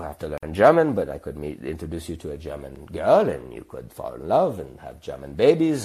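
put-on swooping German accent on the key words; German-accented matchmaking. German landlady pitching romance to young guests, accented coaxing.

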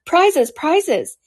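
high-pitched clamor; clamor for it like an eager crowd; confused calling out. A narrator's reading. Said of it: "calling out in a confused way".

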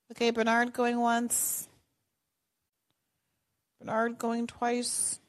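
slow, drawn-out mock auctioneer; auctioneer call. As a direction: count him down like an auction. Host calls out like auction.

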